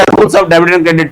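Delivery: slow and deliberate. Shown as a demonstration. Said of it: "teacher stresses the topic title".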